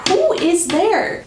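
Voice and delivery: slow, high retold call, not shouted. Man in the pond to a hidden watcher, calling out. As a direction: call out slowly, pitched high. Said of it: "so he's calling out".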